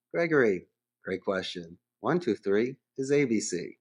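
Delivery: calm friendly reply that names the caller first; buffered friendly answer. Shown as a demonstration. Agent answering the caller with a calm friendly buffer. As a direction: soothe him by using his name. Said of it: "to buffer that negative tone".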